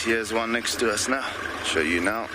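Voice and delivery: jolted by bumps; on a bumpy road. Real, not acted. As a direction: voice shaken by a bumpy drive. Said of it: "Sorry about the bumps".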